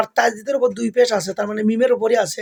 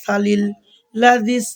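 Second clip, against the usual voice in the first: drawn-out chanted tilawat, each vowel held; slow Quran recitation; much slower than usual. Shown as a demonstration. Teacher reciting a verse for his students, slow chanted recitation. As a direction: recite the verse slowly with tajweed.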